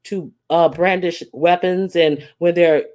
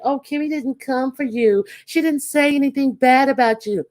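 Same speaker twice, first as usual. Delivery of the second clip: mock chat reassurance; 8 semitones higher than usual. Voicing chat reassuring Tracy.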